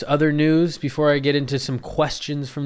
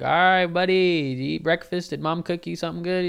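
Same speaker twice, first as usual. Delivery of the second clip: hearty hockey dad; 6 semitones higher, 5 dB louder than usual. Retold or imitated. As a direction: sound like a pumped-up coach dad. Hockey dad answers son.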